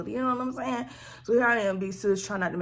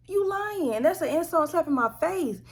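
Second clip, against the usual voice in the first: 1 offended; 9 semitones higher than usual. Retold or imitated. Retorts to her mother.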